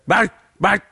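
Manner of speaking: put-on high English-accented barking words. Coworker barking while rolling silver, mock English accent. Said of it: "I'll use an English accent".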